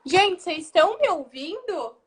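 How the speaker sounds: loud check over a bad connection; calling out. Real, not acted. Host checks audio on call.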